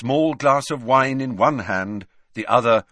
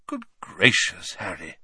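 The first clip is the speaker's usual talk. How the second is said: surprised; 2 semitones lower than usual. Acted. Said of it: "said Dumbledore in surprise".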